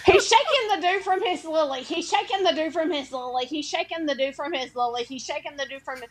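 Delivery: put-on Cockney, run off in quick repeats; Cockney accent. Shown as a demonstration. Co-host repeats Stormy's sentence on request, Cockney accent. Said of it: "four times in Cockney".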